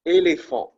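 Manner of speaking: Éléphant with a high bright rise, French é. Shown as a demonstration. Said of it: "You pronounce it similar to the letter A".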